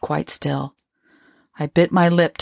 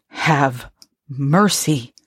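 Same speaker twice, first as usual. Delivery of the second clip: slow plea; 2 semitones lower, much slower than usual. Acted. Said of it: "I said again".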